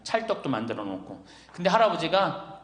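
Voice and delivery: normal talking voice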